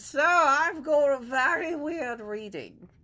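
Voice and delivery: high, slow voice of a worried sailor; nervous sailor. Acted. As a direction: report it to the captain, uneasy. Biggs reports to captain.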